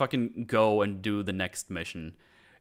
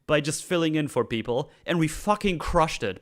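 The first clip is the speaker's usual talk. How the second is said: exasperated rant; 6 semitones higher, 4 dB louder than usual. Retold or imitated. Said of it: "I was like".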